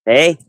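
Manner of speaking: Hey said the Canadian way, a drawn-out ay sound. Shown as a demonstration. Host showing the guest how Canadians say Hey, Canadian accent. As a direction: teach the Canadian Hey with a long ay. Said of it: "you still don't got that A right".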